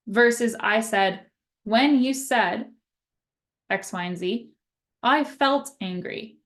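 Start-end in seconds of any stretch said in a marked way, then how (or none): 1.6-6.3 calm I-statement. Shown as a demonstration. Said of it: "there's a bit of a difference in my tone".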